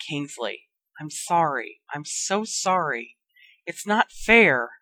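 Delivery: hushed, heavy with loss; murmured grief. Acted. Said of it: "Harry murmured".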